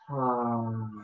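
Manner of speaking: soft ha on the out-breath; breathy ha exhale. Shown as a demonstration. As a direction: release the breath with ha. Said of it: "breathing out through your mouth".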